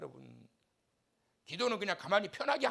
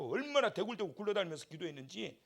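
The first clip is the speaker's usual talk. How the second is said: normal talking voice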